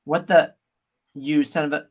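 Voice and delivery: Australian accent. Shown as a demonstration. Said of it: "I'm about to swear".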